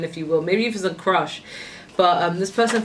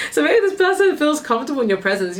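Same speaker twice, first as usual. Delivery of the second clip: higher and louder, still giggling; laughing through words; 9 semitones higher, 4 dB louder than usual. Real, not acted. Reader to viewers, still giggling after a laugh. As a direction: talk through the last of the laugh.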